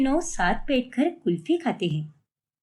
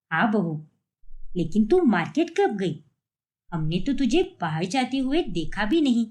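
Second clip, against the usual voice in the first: put-on lower, older mother-in-law voice; mother-in-law asking her daughter-in-law about the market, in an older, lower voice; 5 semitones lower than usual. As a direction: speak as the puzzled elderly mother-in-law.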